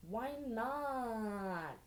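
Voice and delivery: drawn-out pouty whine; whining. A narrator's reading. Boy pouting at being refused, whining. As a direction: whine it like a let-down kid. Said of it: "he whined".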